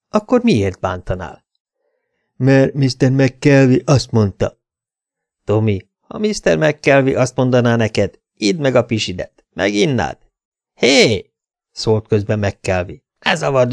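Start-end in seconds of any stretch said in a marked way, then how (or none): 2.4-4.6 slow, dull, a little louder; a lumbering brute reciting the obvious; slow dim thug voice. A narrator's reading. Thug Tommy explains to the detective he obeys McKelvey, slow and dull. 10.7-11.3 high, loud bark; sharp shout. A narrator's reading. McKelvey stops the detective confusing his man, shouting.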